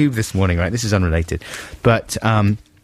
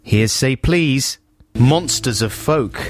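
radio announcer; 3 semitones higher, much slower than usual. Acted. Announcing the record slowly.

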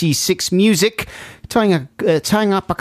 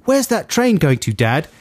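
lightly voiced small boy, higher start; hint at a child's curious question; young boy; 3 semitones higher than usual. Boy asking his dad on a platform, lightly voiced child. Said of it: "a boy ask his dad".

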